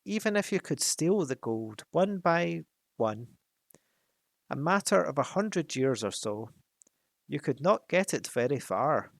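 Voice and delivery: a sly dragon drawing out each taunting question; mocking dragon. Sly dragon needling the hobbit about carrying off gold, mocking. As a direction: play the cunning dragon toying with the thief.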